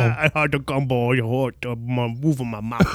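slurred Creole parody; mock Creole accent. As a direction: mumble through it in a silly Creole accent. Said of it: "That's just the Creole accent".

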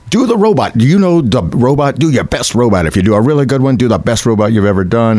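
high, pushy casting director voice. Retold or imitated. Casting director urging actors to do the robot, high and pushy. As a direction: bark orders like an eager casting director. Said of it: "this casting director's like".

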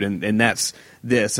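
slow, polished podcast host read. Shown as a demonstration. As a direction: put on the structured podcast voice. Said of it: "I go into, like, podcast voice mode".

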